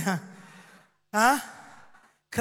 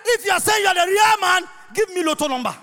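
mocking challenge; 3 semitones higher, faster than usual. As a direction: taunt Jesus for a sign. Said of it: "you ask him".

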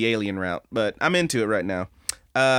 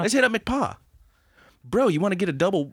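higher dude-bro voice; mock a clueless dude; 6 semitones higher than usual. Mocking characters as bros.

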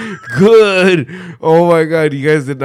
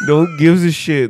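shouting; 6 dB louder than usual. Real, not acted. Shouted punchline.

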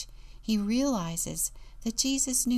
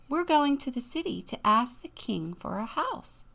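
lifted, higher Jack voice; young Jack; 5 semitones higher than usual. Acted. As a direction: answer brightly as storybook Jack. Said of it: "answered Jack".

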